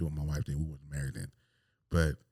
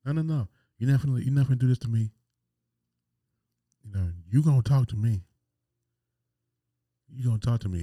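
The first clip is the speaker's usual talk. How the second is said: louder, fast, insistent pushback; mock angry boyfriend arguing; argumentative; 4 semitones higher, 5 dB louder, faster than usual. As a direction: demand she talk to you. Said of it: "I wanted to argue".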